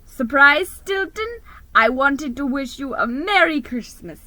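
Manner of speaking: high, loud cheerful shout; shouted greeting. Acted. Detective mouse shouts a holiday greeting, loud and high. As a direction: call it out big and bright. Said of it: "he shouted".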